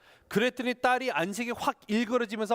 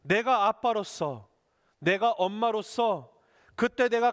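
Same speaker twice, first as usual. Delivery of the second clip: put-on sincere apology to a child. Shown as a demonstration. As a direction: say it to your child as a real apology. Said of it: "이렇게 하시기 바랍니다".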